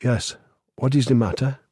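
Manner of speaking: put-on foreign accent giving each syllable of "Yes, what is the matter?" equal stress; foreign accent, even syllables. A narrator's reading. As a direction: speak in a foreign accent that weights every syllable evenly. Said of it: "Her accent gave each syllable equal stress".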